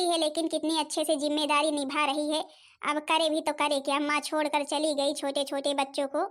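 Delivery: a weary grandmother sighing over her lot; old grandmother. Acted. Grandmother figure again.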